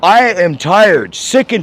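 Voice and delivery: loud, slow, every word pressed; exasperated outburst. Real, not acted. Customer fed up with the bank managers, slow and loud. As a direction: drag it out in exasperation.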